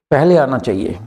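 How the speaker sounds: पहले hit first with a falling tune; teacher stressing पहले in the rule. Shown as a demonstration. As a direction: lean on पहले, the rest lighter. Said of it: "इस पहले शब्द के ऊपर ध्यान देना".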